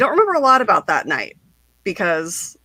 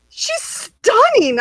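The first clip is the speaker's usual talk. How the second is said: much higher, slow, swooning; dazzled remark to a friend; awestruck; 3 dB louder, much slower than usual. Retold or imitated. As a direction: breathe it out in awe. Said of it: "I was like".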